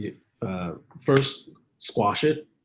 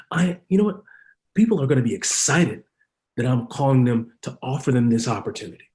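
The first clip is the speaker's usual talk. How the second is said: positive affirmation. Retold or imitated. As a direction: answer the doubt with a lift. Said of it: "statement of truth".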